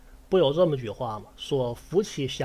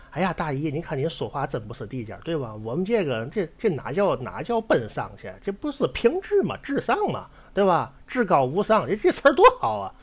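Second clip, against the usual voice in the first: coaxing bride; 4 semitones higher, 3 dB louder than usual. Acted. 新娘打圆场的演绎.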